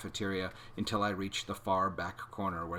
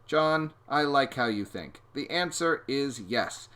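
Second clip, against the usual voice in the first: slow persuasion; 6 semitones higher, 6 dB louder, slower than usual. A narrator's reading.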